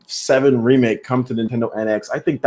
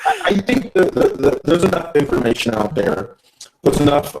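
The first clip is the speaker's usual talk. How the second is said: breaking up over the line; choppy, glitchy call audio; bad connection; 2 semitones higher than usual. Real, not acted. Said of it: "You sound like you're breaking up on my end".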